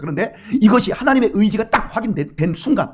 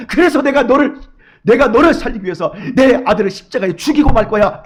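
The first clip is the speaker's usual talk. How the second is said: loud resolute vow; 4 semitones higher, 6 dB louder than usual. Acted. God's will voiced as a vow.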